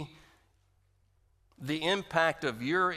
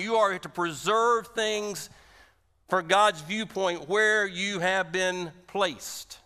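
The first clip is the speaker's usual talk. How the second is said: higher, louder and very slow; preaching emphasis; 4 semitones higher, 4 dB louder than usual. Real, not acted. Preacher to congregation, slow loud emphatic delivery. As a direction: stretch each word with force.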